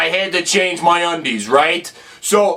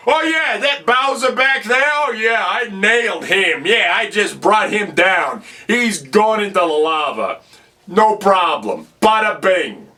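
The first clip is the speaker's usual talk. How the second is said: boastful. Acted. Bragging to the princess, hiding his fear.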